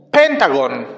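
"Pentagon" stressed on PEN, falling away; English pronunciation demo. Shown as a demonstration. Teacher showing children English "Pentagon", first syllable stressed. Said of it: "en inglés se pronuncia pentagon".

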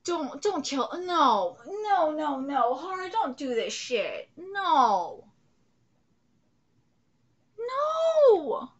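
pleading shouts. Real, not acted. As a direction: beg the screen to stop it. Begging show not to kill character.

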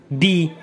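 بي said as French "bé"; French syllable. Shown as a demonstration. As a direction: sound out بي the French way. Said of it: "بحال مثلًا بي".

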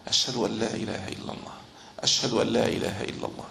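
soft, low, quick recitation. Shown as a demonstration. Teacher showing the muezzin's repeated testimony, in a low voice. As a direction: drop the voice and say it quickly. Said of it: "ثم يقول بصوت خفيض".

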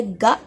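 गा stretched long and slow for pupils; teacher sounding out गा slowly for the class; drawn-out syllable. Shown as a demonstration. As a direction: draw out गा slowly so children hear the vowel. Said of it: "पढ़िए कि कैसे पढ़ा जाता है".

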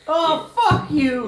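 loud slow laughing yell; laugh-shout at the mess; laughing outburst. Real, not acted. Fizzing beer startles, laughing.

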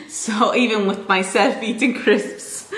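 slow words through giggles; laughing. Real, not acted. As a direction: giggle and talk slowly. Laughing about noisy crunching.

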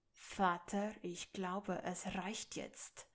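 a restrained, slowed threat through the teeth; hissed warning. Acted. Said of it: "zischte Draco".

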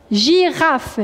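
girafe split into gi and rafe; syllable-by-syllable dictation. Shown as a demonstration. Teacher dictates girafe for pupils' notebooks, syllable by syllable. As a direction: say girafe in two separated syllables.

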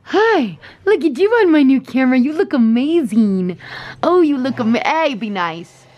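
high, bright-toned greeting to the dog; squealing hello to her dog; puppy talk. Real, not acted. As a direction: gush over the puppy in a high voice.

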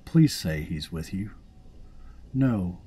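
high, loud eager voice for the game character; voiced game character, high and loud; dweller voice. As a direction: read it as an excited visitor. Reading game dialogue in voices.

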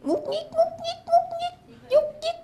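very high, playful sound words; squeaky fidget sound. Acted. Sound word for fussy thoughts. (เสียงสูงแหลมเล่นคำเลียนเสียงงุกงิก)

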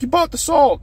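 imitating the lady. Lady reminds him he bought the salt, high mock voice. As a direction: pitch up into a mock lady insisting. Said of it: "She's like".

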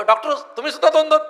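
high-pitched, lightly acted amazement; mock surprise. Patient seeing double tells eye doctor, mock surprise. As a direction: raise the pitch in comic astonishment.

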